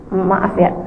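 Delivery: soft, low, stumbling apology; halting apology. Acted. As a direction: say sorry haltingly, pride getting in the way. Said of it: "jadi kayak terbata-bata gitu ngomongnya". (minta maaf terbata-bata karena gengsi)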